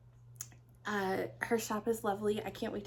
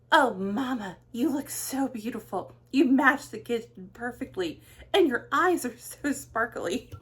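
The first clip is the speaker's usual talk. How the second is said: loud, higher gushing praise; gushing daughter; 4 semitones higher, 8 dB louder than usual. Retold or imitated. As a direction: gush over how lovely mom looks.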